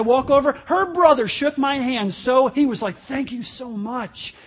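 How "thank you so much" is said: soft, slow acted gratitude; hushed, drawn-out thanks; grateful thanks. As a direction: quote a relieved brother thanking you quietly. Acts out the grateful brother.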